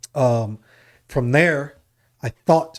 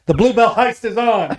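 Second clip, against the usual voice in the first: heavy New Jersey accent, higher and louder; 9 semitones higher, 5 dB louder than usual. Shown as a demonstration. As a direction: lay on the thick Jersey mobster accent. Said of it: "that's what I sounded like when I first got here from Jersey".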